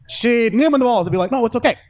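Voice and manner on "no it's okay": high, cooing imitation of a comforting woman; mock-sweet "there, there" delivery; mock reassurance. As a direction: soothe in a put-on higher voice. Same soothing woman, repeated.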